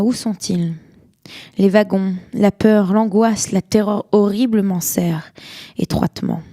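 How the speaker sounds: solemn poetry reading with long pauses; grave, deliberate recital, swelling and sinking with the verse; poem recitation. Acted. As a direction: read it as a lament, line by measured line. Reads a poem aloud.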